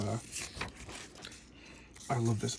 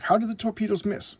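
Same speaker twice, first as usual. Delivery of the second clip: higher, baffled commander; 8 semitones higher, 3 dB louder than usual. Retold or imitated. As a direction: ask it in disbelief.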